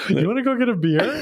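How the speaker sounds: high-pitched mock-eager invite; hammed-up eager question; playful invitation. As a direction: pitch it up like an instant new best friend. Acting out an imagined first meeting.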